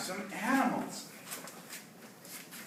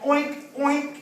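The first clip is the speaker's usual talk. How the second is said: higher-pitched oinks; pig oink; 6 semitones higher than usual. Shown as a demonstration. Teacher showing English pig sound, high oinking. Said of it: "Or we say".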